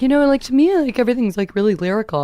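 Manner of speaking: self-mocking pompous actor talk, starting high. Actress retelling her talk with another actor about accents, mock pompous. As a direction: imitate yourself pontificating about accents, lightly hammed-up. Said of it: "really pompous conversation with another actor".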